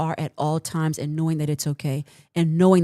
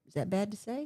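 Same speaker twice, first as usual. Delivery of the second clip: quiet aside; 3 semitones higher, 10 dB quieter, faster than usual. Real, not acted. Teasing aside after joke.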